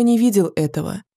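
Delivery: plain reading voice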